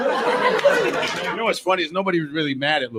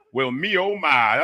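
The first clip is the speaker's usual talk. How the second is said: put-on old-timey gent; 2 semitones higher, slower than usual. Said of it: "how they talked in the eighteen hundreds".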